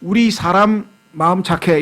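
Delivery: 사람 said with a plain s and a single r; slow, careful 우리 사람; correct pronunciation. Shown as a demonstration. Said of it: "이래야 되는데". (바른 발음)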